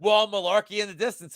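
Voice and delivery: mock Southern drawl, "Well" stretched out; imitating doubters in a light Southern drawl. Capper mocking the doubters' pick in a Southern drawl. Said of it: "do the Southern drawl".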